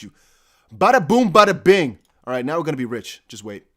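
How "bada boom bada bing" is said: loud, high bada boom; triumphant shout. Real, not acted. Streamer to chat celebrating a price jump, loud triumphant shout. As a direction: belt it out like a magic trick landing.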